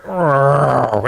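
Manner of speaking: long growling "rrr" siren; drawn-out rolling whir; imitated incoming noise. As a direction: make the noise of something coming in. Imitates sound of incoming fire.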